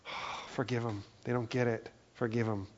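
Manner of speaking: soft sigh into a gentle plea; understated heartbreak. Acted. Jesus asking mercy for those sneering at him, mildly heartbroken. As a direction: plead quietly, with a touch of heartbreak. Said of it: "with a heart that is breaking".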